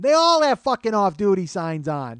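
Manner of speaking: high, loud, slow mock yell; imitated yelling. Woman in the cab line to comedian, mock yelling. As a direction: stretch every word in irritated disbelief. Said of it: "She's yelling at me".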